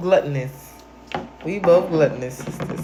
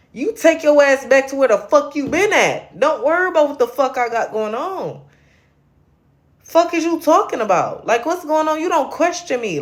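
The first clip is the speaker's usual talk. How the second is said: heated, higher-pitched rebuke; angry telling-off; 4 semitones higher than usual. Real, not acted. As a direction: tell off a critic, voice pushed up. Angry rant at a critic.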